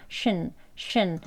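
신 slow and soft, no clear shun; soft shin. Shown as a demonstration. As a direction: say 신 gently, drawn out. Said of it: "션 하고 명확하게 발음하는 것이 아니고요".

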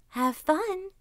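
high, lightly voiced grin; lightly grinning fox. A narrator's reading. Fox seeing Kuzma off hunting, lightly grinning. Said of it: "grinned the fox".

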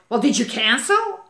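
mock aggressive, accusing; a touch of hostility in the question. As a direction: imitate her accusing challenge. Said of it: "in that tone of voice and that aggressively".

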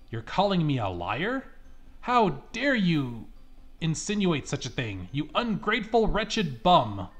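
a touch of an offended grandma scolding; mildly played old lady berating the officer; indignant outburst.

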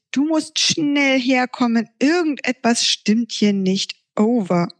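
a yawning friend radioing for help; Momo's voice. Acted.

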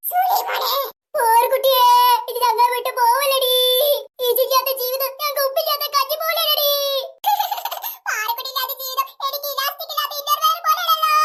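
hammed-up lament; mock crying. Friends pretending to mourn the girl, mock crying. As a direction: put on a tearful mourning wail. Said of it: "അയ്യോ മക്കളെ കരയല്ലേ".

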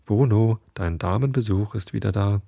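mildly silly sing-song shout. Acted. Chef calls teasingly to the kitchen, lightly silly. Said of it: "Mit einer ganz albernen Stimme hat er gerufen".

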